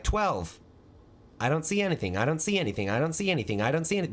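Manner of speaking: each phrase peaks on "see", then falls; lightly acted kid. Boy answering the plate test, lightly acted kid. Acting out himself taking the test.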